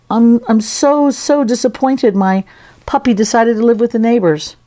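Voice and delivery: put-on mournful disappointment; really sad. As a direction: play a dejected character, drawing words out. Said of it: "Now this is the really sad".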